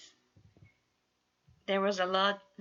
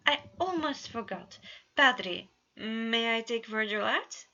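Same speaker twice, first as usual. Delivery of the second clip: lightly voiced prince, formal; a touch of the royal suitor; theatrical prince; 4 semitones higher, 5 dB louder than usual. Roman addresses Padre.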